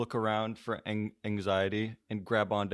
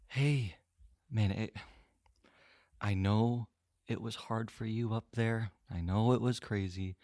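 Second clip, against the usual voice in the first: calm; 4 dB quieter than usual. Acted.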